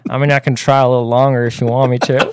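put-on Texan accent; lightly drawled Texan imitation; Texas accent. Shown as a demonstration. Guest offers a longer try, Texan accent. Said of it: "it's Texas".

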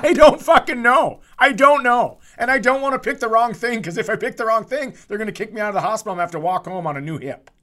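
high, loud panicked rant; laughing into a frantic outburst about insurance; exasperated outburst. Real, not acted. Friend venting about picking the wrong insurance, frantic and loud.

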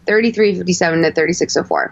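timestamp rattled off quickly; fast repeat. Shown as a demonstration. Podcaster repeats the clip range for listeners, fast. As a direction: rush through the numbers a second time. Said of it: "let's go to".

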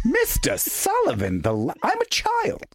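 high, slow, hammed-up childish protest; pleading with the teacher in a high mock whine. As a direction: squeal it out like a wounded kid. Mock-offended whiny reply.

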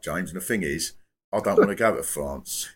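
lightly voiced phone-in caller; a hint of the caller confiding his conclusion; caller impression. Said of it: "I'm doing the act, but I think he did talk like this".

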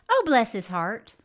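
lightly put-on East Texas drawl, slow; attempted East Texas accent. Co-host reading a fan's letter aloud, attempted East Texas accent. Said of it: "you're not known for accents".

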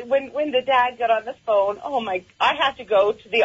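laughing through tears; choked up, half laughing; snotty crying. Real, not acted. Caller moved to tears, makeup ruined.

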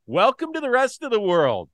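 loud, high mocking taunt; gloating shout. Real, not acted. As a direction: crow it at the rival fans. Taunting rival fans, loud.

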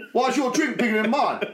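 high, giggly mock complaint; quoting him through a laugh; laughing while quoting. Mate jealous of the bigger drink, quoted laughing.

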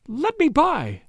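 high, panicked woman's cry; shriek. A narrator's reading. Terrified woman blocked at the door, shrieking. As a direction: plead to get past, pitched right up. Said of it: "she shrieked".

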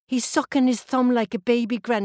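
put-on little girl pointing out the statue, amazed; excited child. Child protests to granny.

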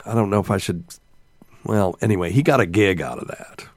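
hushed aside; whispering. Real, not acted. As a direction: whisper it like a secret. Confiding aside.

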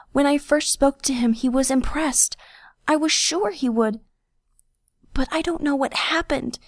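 high, sob-racked pleading voice; sobbing. A narrator's reading. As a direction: plead through sobs, muffled. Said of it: "muffled by his clothing and racked by sobs".

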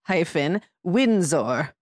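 slow, mock posh British accent, drawn out; a playful, stately British accent, very slow; proper British accent. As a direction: announce the royal name in a mock-grand British accent. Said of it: "which you need to say with a very proper accent".

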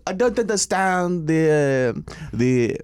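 put-on French accent, drawn out. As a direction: play a hesitant Frenchman, slowly. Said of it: "we were doing the French accent".

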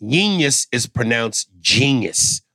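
"genius" sounded out slowly as the correct form; slow, pointed correction on "genius"; corrective pronunciation. Retold or imitated. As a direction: spell out by ear how "genius" is pronounced. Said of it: "when we don't say things right".

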